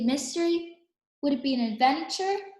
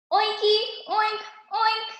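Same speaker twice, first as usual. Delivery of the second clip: higher, cute pig sounds; high playful oinking; piggy oinks; 7 semitones higher than usual. A narrator's reading. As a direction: oink like a happy little pig. Pigs greeting in pig talk.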